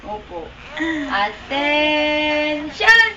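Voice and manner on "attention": very slow, drawn-out command; drill sergeant. Pretend. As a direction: stretch the order out like a drill sergeant. Commanding a pet to stand.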